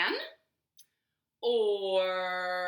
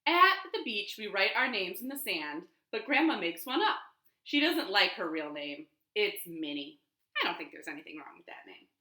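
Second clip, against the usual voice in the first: lively picture-book reading; reading to children. Shown as a demonstration. Librarian reading the picture book aloud at storytime. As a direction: read it out warmly to the kids.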